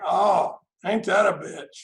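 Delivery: loud, mocking sarcasm; sarcastic retort. Recovering alcoholic mocks a caffeine addict, loud sarcasm. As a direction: throw the sarcasm back loud.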